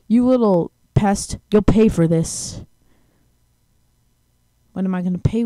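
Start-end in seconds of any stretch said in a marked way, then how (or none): 0.1-2.6 villain threat. Acted. Voicing the boss's threat.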